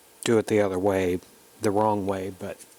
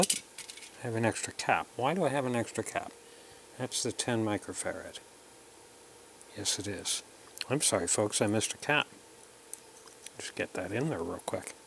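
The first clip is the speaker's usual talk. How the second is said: quiet muttered aside; 9 dB quieter than usual. Real, not acted. Muttering to himself over missed cap.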